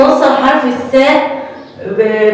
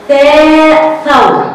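ثاء ثور stretched very slowly, louder and higher; drawn-out sound drill; 4 semitones higher, 5 dB louder, much slower than usual. Shown as a demonstration. Teacher to children, drawing out ثاء ثور loudly. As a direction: pull out ثاء ثور for the class. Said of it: "هتاخد صورة ايه تاني".

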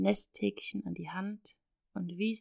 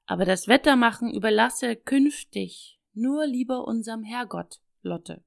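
louder, playfully warning call; called after her; 6 dB louder than usual. Acted. Father calling after his relieved daughter, calling out. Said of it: "rief er dem ... Töchterchen nach".

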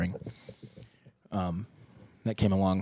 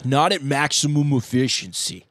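plugged nose voice; 3 semitones higher, slower than usual. Shown as a demonstration. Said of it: "talk like this".

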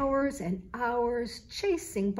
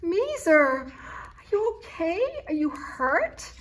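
calling down; 8 semitones higher, 6 dB louder, slower than usual. A narrator's reading. Calling down the drain.

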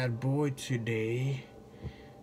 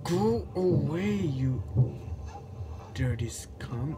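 high slow yell, then whispered curse; swearing tirade; 4 semitones higher, slower than usual. Real, not acted. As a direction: shriek go away, hiss the insult. Cursing at animatronic.

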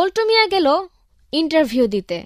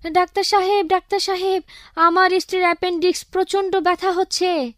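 panicked caller; 5 semitones higher than usual. Acted. Panicked midnight call to doctor.

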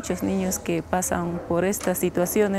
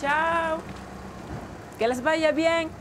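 high, sing-song send-off; calling goodbye; 9 semitones higher than usual. Real, not acted. Waving children off to school. (despedida cantarina en tono agudo)

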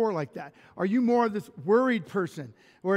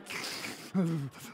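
soft imitated weepy sobs; mock bawling; 2 semitones lower, 6 dB quieter than usual. Crying at romantic films with wife, mock bawling. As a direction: fake blubbering without words. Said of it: "bawling with, with my wife".

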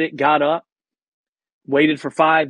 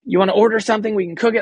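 higher, timid host voice; polite coffee shop owner; 8 semitones higher, faster than usual. Retold or imitated. Coffee house owners offering the guest food, a higher polite voice. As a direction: play the shy owner offering food, pitched up. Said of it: "So, like".

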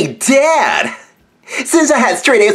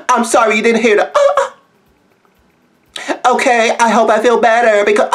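fake-sick excuse breaking into laughs; laughing; faster than usual. Real, not acted. Telling Evan you're sick, laughing through it. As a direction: try to stay serious and crack up.

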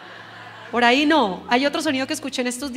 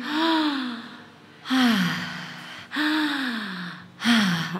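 demo open-mouth sighs; much slower than usual. Shown as a demonstration. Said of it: "relajan el cuerpo y hacen".

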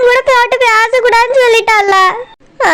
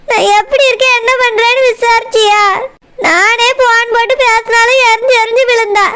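crying. Acted. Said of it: "இப்ப எதுக்கு இப்படி அழுதுட்டே இருக்கா?".

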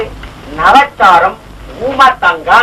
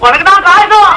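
tearful accusation; 6 semitones higher than usual. Acted. Tearful accusing quarrel between couple.

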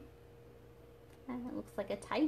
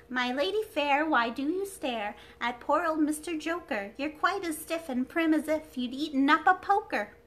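cheeky clown voice; 5 semitones higher, 5 dB louder than usual. Acted. Saucy clown speaks.

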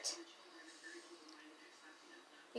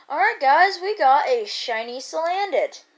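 excited; 3 semitones higher, 4 dB louder than usual. Real, not acted. Shiny caught after long hunt.

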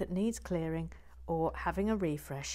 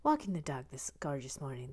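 light Irish accent; 4 semitones lower than usual. Shown as a demonstration. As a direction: read it with a gentle Irish lilt. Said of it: "I'll do a light Irish accent".

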